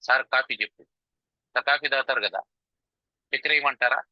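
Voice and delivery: mildly placating, even voice; lightly acted soothing of an angry visitor; calm, not shouting. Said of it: "అరుస్తున్నాడని వీడు కూడా అరవకూడదు". (అరవకుండా నెమ్మదిగా బుజ్జగిస్తూ)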